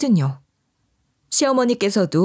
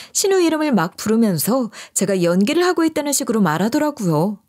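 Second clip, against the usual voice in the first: ordinary delivery, nothing marked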